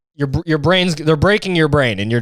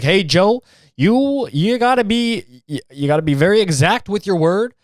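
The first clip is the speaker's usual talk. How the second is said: lightly mocked fan voice, pitched up; demanding fans; 5 semitones higher than usual. Fans demanding exactness from a podcaster, mock insistence. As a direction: put on a higher voice, as if lecturing him. Voicing Rogan's demanding audience.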